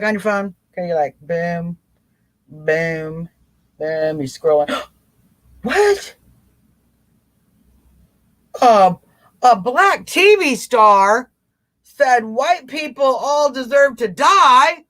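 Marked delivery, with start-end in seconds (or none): 4.7-6.1 mock shock. Pretending to scroll past an outrage headline, mock shocked gasp. 8.6-14.8 mock outrage. Shown as a demonstration. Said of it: "Instead of doing that".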